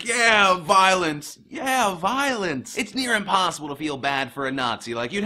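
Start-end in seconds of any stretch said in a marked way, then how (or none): 0.0-2.8 mock cheering. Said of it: "I resist to not be like".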